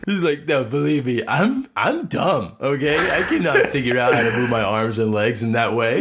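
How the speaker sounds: put-on kid voice. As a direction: insist like a kid owning his failure. Kid insisting he's dumb.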